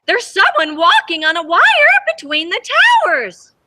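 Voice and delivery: lightly acted woman calling out; mildly excited call. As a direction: point up and call out, lightly voiced. Woman from subway points up.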